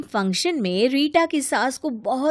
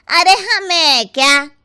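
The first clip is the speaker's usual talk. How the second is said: sneering; 5 semitones higher, 7 dB louder, slower than usual. Acted. Relative sneers.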